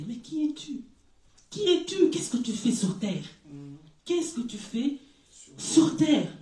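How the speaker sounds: rising, pressing questions to the rich; preaching challenge. Acted. (interpellation de prédicateur au riche)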